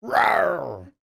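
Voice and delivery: loud playful mock roar; bear roar. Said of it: "the first bear in now".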